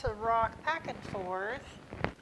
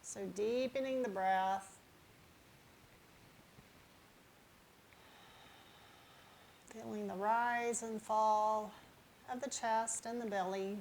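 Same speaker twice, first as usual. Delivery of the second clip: unhurried, gently lowered yoga-teacher voice; guided relaxation; 7 dB quieter than usual. Real, not acted. Yoga teacher settling viewers on their mats, calm guided relaxation. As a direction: ease them into the breath with long pauses.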